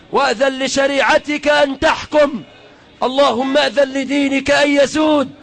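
sustained, chanting-like prayer in measured phrases; real congregational prayer, insistent and evenly paced; public supplication. Real, not acted.

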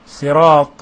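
صراط begun with a thin س sound; صراط pronounced as if written with seen; sad as seen. Shown as a demonstration. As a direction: say صراط with a light s, no emphasis on the ص. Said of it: "ظهرت كأنها سين".

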